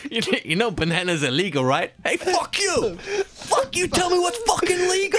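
very high cartoon mobster squawk; hammed-up outraged wiseguy; gangster. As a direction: squeal it like an indignant comic gangster. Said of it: "Said no gangster ever".

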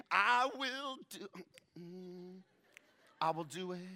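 high and loud, stretching I will do it; eager promise. Retold or imitated. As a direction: overeager suitor swearing he'll do it. Boaz eager promise, acted.

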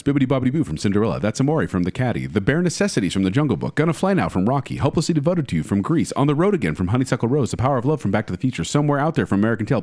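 rattled off quickly, no pauses; all in one breath. Real, not acted. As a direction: race through the list breathlessly. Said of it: "do all of my honorable mentions in one breath".

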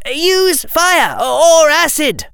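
high, slow urgent yell; shouting. Acted. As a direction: call out desperately. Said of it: "Harry shouted".

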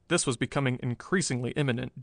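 ordinary delivery, nothing marked

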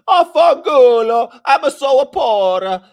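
very high, loud, drawn-out mock Italian; horrible Italian accent. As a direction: wail it in a hammed-up Italian accent. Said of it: "he has this horrible accent".

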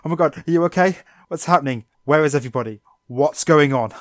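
Misty losing it at Psyduck; getting angry. Retold or imitated. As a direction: build from worried to furious yelling. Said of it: "her just being like".

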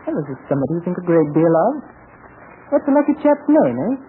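lightly British, teasing question; a hint of a British chap probing playfully; Johnny Samber. Terry teases Miss Chang in disguise, mild British accent. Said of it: "Terry doesn't talk like you do".

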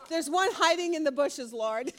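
gleeful tattling. Pretend. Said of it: "most of us would sit back and go".

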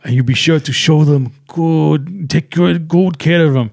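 put-on German accent. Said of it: "I'll show you".

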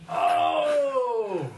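high sudden yelp of recognition; delighted recognition. Real, not acted. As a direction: react like the answer just clicked. Recognises the movie title.

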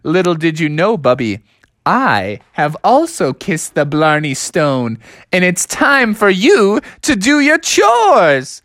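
mock laugh then slow reveal; chuckle, then land it slowly; gloating Dad. Dad reveals he kissed the Blarney Stone too, gloating. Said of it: "And his dad was like".

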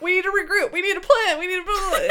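high-pitched mock shout; half-shouted impression of a panicked order; imitated shouting. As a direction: call out urgently as if rallying the team. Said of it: "Dean's just shouting".

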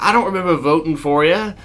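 high, loud put-on complaint; indignant peasant. Peasant telling king about voting, high indignant complaint. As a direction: object as an unimpressed peasant. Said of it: "And, like".

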